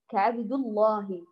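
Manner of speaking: كعبد الله recited slowly, lam of الله heavy and full; heavy lam in Allah. Shown as a demonstration. Teacher reciting the verse to students, slow and emphatic. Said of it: "قال الإمام ابن الجزري".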